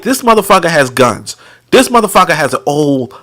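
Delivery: measured, chant-like counting off; mock nursery-rhyme cadence; nursery-rhyme recital. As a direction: list it like a little-piggy rhyme. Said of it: "I'm sounding like that motherfucker. ... This little piggy went to market".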